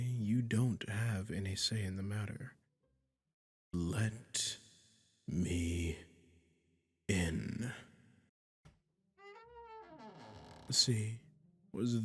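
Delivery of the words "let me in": word by word, pausing between each; slow firm demand. Acted. Caster orders the listener to open up, slow firm demand. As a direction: spell out the command, falling lower.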